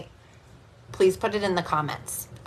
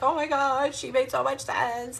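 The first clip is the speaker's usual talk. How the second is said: higher, gushing mock client voice; amazed reading client; 7 semitones higher than usual. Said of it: "like, crying and, like".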